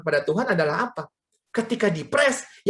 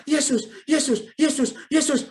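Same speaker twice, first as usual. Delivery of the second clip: retold cries; 6 semitones higher than usual. Imitating mother as the coaster climbs, mock yelling. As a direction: repeat it like a frightened mother calling out. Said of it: "dia mulai teriak".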